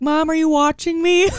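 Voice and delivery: put-on child calling out to mom from the field; eager kid voice. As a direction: play the proud kid checking mom is looking. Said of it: "he would look at me and be like".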